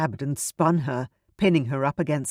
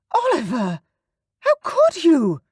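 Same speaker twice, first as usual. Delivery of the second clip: high, loud mock shock; fake shock; 13 semitones higher, 6 dB louder than usual. Honoria catching Oliver, hammed-up shock. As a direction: overplay the gasp of shock. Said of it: "the shock in her voice was clearly put on".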